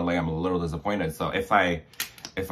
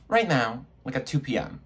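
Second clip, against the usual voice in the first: boss imitation; 7 semitones higher than usual. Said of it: "He's like".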